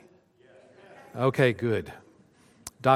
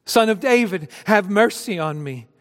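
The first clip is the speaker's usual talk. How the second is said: higher, louder pleading cry; crying out more; 6 semitones higher, 4 dB louder than usual. Acted. Beggar shouts past those hushing him, pleading louder. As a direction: call out even harder over the crowd. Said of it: "he cried out all the more".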